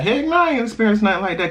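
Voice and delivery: high, quick sassy mock voice; mocking a commenter. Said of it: "don't come for me and be like".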